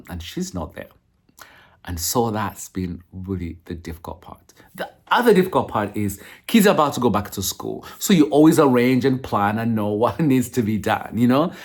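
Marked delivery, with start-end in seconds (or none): 0.1-7.8 tearful, near-whispered voice; barely holding back tears; after crying. Real, not acted. Choked up over absent foster daughter.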